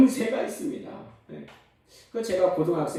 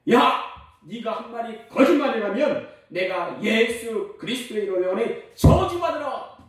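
mock shout; 5 semitones higher, 4 dB louder than usual. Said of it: "크게 외쳤습니다".

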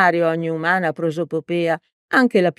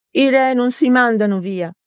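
put-on higher stern old teacher retort; 7 semitones higher, 4 dB louder than usual. A narrator's reading. Old teacher rejecting democracy, stern. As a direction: dismiss it like a strict teacher.

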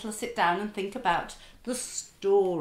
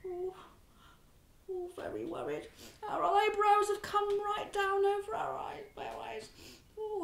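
worried; 11 semitones higher, 6 dB quieter than usual. Shown as a demonstration.

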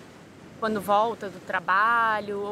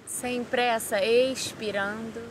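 calm guided-meditation voice with long pauses; 3 dB quieter than usual. Real, not acted. Yoga teacher guiding listeners through body relaxation, calm meditation voice. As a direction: lead them through breathing and relaxation, unhurried.

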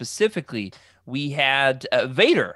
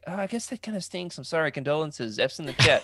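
mock condolences; 3 semitones higher than usual. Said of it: "he's not excited".

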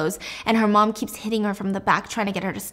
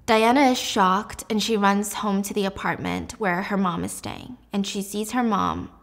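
ordinary delivery

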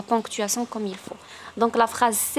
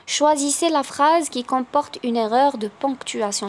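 slow, careful dictation of test sentences; slow classroom dictation; slow exam read; 3 semitones higher, much slower than usual. Acted. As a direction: read each option slowly for the class. Reads exam question.

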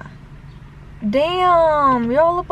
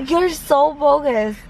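drawn-out teasing; much slower than usual. Real, not acted. Teasing girlfriend drawls accusation.

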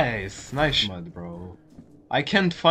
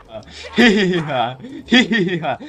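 1 mock giggle.

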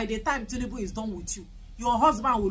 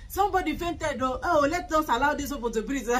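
mock senator; 3 semitones higher than usual. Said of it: "they will come inside the Senate".

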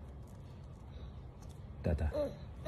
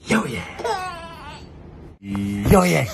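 shout; slower than usual. Acted. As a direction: belt it out to make baby laugh. Hyping the baby up.

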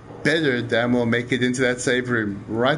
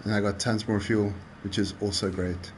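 holding breath; 5 semitones lower, 5 dB quieter than usual. Real, not acted. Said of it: "I'm holding my breath".

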